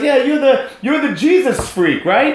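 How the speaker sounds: imitated public teasing. Councilman teases him publicly.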